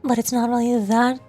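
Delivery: put-on mommy voice, modestly done; mommy character voice. Shown as a demonstration. Streamer showing the best mommy voice they can get, role voice. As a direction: attempt a dommy mommy character. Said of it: "Something like this is probably the best I can get".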